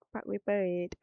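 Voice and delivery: Parkway Parade in a light Singaporean accent; a hint of Singapore on the place name. Shown as a demonstration. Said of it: "I like it when my Singaporean accent, comes out of hiding just for, like, a word".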